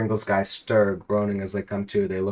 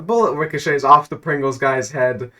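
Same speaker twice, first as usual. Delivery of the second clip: loud, rising narration building to a shout; excited shouting narration; 4 semitones higher, 6 dB louder than usual. A narrator's reading. Narrator yelling the villain's misfortune, shouting. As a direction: shout it out as the punchline lands.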